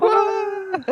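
high cartoon scream; falling wail. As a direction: wail as you fall. Falling down vents forever.

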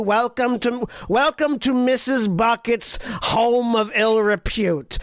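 put-on light Boston-Jersey mom accent, welcoming a guest; a hint of a Boston-Jersey mom hosting. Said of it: "Boston Jersey mom".

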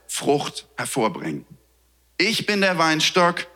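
measured Bible reading with pauses; scripture reading. Acted. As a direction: read the passage solemnly to the congregation. Reads John 15 aloud. (Pastor liest der Gemeinde Johannes fünfzehn feierlich vor)

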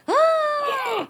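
very high imitated gasp; hammed-up collective gasp of shock; mock shocked gasp. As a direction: gasp like scandalised onlookers.

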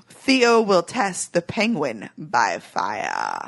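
slow ominous rhyme ending; dramatic slow reading. Acted. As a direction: draw the last line out slowly. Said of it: "rhyming episode summary".

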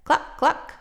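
high breathless cluck cluck; hen clucking. A narrator's reading. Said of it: "Then she said".

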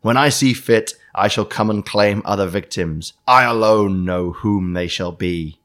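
slow, menacing villain read; a hint of a sinister letter-writer; evil voice. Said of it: "I'm doing the evil voice by accident".

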